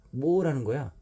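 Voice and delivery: 높고 크게 버럭 화내기; 발끈해서 쏘아붙이듯; angry outburst. Acted. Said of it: "버럭 화를 냈다". (유마가 신영에게 버럭 화내며)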